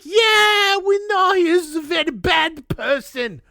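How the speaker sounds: high, loud put-on French accent, near a shout; mock French accent. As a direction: ham up a vague French voice defending him. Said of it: "I don't know what accent that is".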